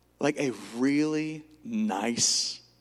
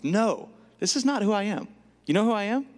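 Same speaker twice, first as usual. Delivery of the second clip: bold confession; 7 semitones higher than usual. Shown as a demonstration. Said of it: "I confess this over my life".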